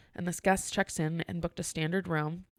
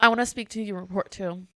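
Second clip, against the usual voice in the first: demanding guest; 2 semitones higher, 6 dB louder than usual. Retold or imitated. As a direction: imitate a customer escalating the complaint. Guest escalates demand, acted out.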